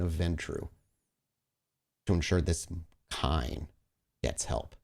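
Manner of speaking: solemn storyteller closing the moment; dramatic narration. A narrator's reading. GM narrates Duke's kindness.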